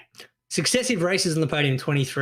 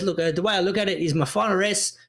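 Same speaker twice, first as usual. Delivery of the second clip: put-on Italian accent; 2 semitones higher than usual. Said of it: "do a little Italian accent".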